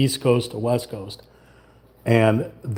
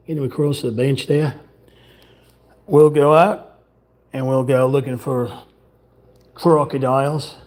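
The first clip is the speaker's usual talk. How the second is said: put-on broad Australian accent, slightly raised pitch; Russell Crowe Australian accent. Streamer showing off a Russell Crowe impression, Australian accent. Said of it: "to do a Russell Crowe".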